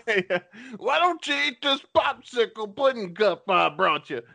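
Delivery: Bill Cosby impression. Offering a pudding cup to a wary guest, high and coaxing. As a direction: sweet-talk him into the pudding cup. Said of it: "that's my Bill Cosby impression".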